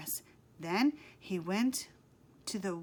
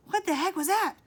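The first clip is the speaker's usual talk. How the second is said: shaking voice; 8 semitones higher, 4 dB louder, faster than usual. A narrator's reading. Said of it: "his voice shaking".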